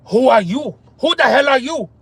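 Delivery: mock-baffled challenge, copying a comedian; retold comic disbelief; imitated comic delivery. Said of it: "It's the way he said it".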